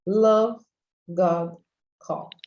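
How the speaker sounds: LOVE, GOD, COP as separate English words, no vowel after the final consonant; teacher's careful English model; model pronunciation. Shown as a demonstration. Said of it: "esse O é pronunciado da mesma maneira".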